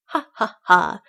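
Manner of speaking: mock parrot laugh, word by word; spaced-out ha-ha, last one loud; screamed parrot laugh. A narrator's reading. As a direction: read a stagy squawk of laughter. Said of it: "screamed Polly".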